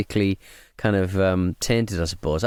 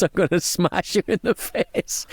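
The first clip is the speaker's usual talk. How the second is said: British bloke imitation; 7 semitones higher, slower than usual. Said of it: "his reaction is".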